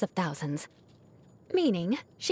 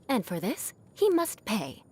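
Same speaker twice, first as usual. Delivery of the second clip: mock vengeance. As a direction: play up the grudge, half joking. Vowing vengeance on the bard.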